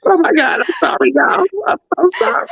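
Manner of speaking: high, hammed-up crying voice; mock tearful apology. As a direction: imitate someone weeping through excuses. Acts out the cast member crying.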